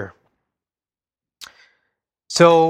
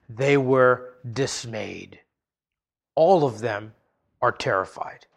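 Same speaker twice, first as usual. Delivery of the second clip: hushed dismay; 5 semitones lower, 6 dB quieter than usual. Acted. Preacher telling of the sons' fear, hushed and low. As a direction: let the dread settle quietly. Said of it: "dismayed, terrified".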